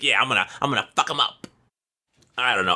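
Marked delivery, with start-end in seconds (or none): 0.0-1.5 fast, lightly voiced cocky little goblin. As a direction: rattle it off like a tiny brawler sure of himself.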